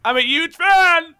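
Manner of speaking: put-on high, slow, over-the-top American accent. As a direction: lay on a cheesy American accent. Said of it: "stereotyping American accent".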